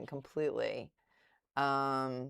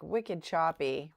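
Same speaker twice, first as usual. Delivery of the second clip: slow, drawn-out Boston wicked choppy; Boston accent; slower than usual. Real, not acted. Streamer slipping into her Boston accent. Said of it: "that's how you can tell I'm from Boston".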